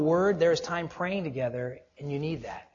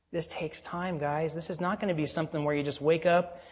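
ordinary talk

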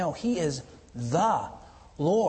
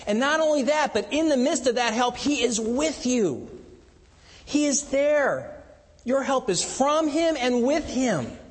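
fervent preaching; 8 semitones higher than usual. Acted. Preacher assuring the congregation God is with them, fervent. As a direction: preach it with rising fervour.

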